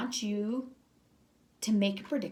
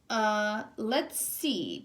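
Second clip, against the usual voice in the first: yawning; much slower than usual. Acted. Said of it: "Bear said with a yawn".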